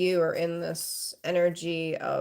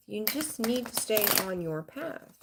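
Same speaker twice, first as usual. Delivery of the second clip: slow it down and drive the message home; slower emphatic repeat; 3 semitones higher, 4 dB quieter than usual. Shown as a demonstration. Repeating the spirit message to viewers, slow and emphatic. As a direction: repeat it slower and quieter so it lands. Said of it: "Spirit saying you just need to stay on your path".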